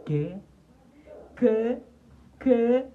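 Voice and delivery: high, loud indignant what; mock outraged what. Real, not acted. Reacting to viewers, a high indignant what. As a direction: snap back in mock shock.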